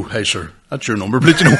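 laughing mock shout to sir. Cousin calling out the number plate, laughing shout. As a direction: call it out while laughing. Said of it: "The Blee had to go".

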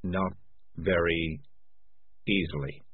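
low, hollow and gloomy. Acted. Morris, caught out, answering gloomily and hollow. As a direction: let the words sink, drained. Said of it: "his voice now quite hollow".

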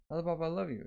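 put-on high lovestruck girl chant; imagined love confession. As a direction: repeat it in a high, dreamy character voice.

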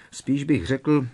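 self-satisfied, lifted delivery; contented amusement. A narrator's reading. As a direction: sound pleased and amused. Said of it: "zasmál se spokojeně Fred".

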